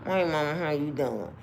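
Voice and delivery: imitating talk through a sore mouth; impaired-mouth talk. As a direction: talk as if the mouth won't work. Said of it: "talking like this".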